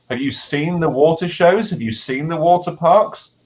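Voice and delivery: light up selling plumbing as exciting; enthusiastic pitch. Retold or imitated. Teacher to bored student, lightly eager sales pitch.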